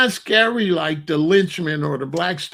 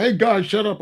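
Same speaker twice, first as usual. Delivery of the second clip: mock bully order; 5 semitones higher than usual. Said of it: "So when he said".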